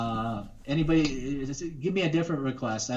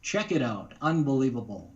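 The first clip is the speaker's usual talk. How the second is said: radio voice. Shown as a demonstration. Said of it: "I could just do my radio voice".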